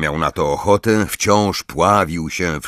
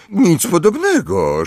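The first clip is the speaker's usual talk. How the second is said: higher, hurried denial; quick denial; 11 semitones higher than usual. A narrator's reading. Harry quickly denying laughing at Ron, hurried. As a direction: brush it off fast, hiding a laugh. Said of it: "rzekł szybko Harry".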